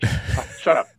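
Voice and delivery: breathy, voiceless mutter under the breath; muttered shut up. Retold or imitated. Annoyed at the radio chatter, a voiceless mutter. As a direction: grumble it so nobody hears. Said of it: "I'm like".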